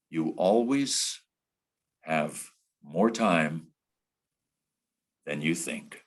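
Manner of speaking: very slow, with long pauses; veteran broadcaster's deliberate delivery. Retold or imitated. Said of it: "that's how he delivered it".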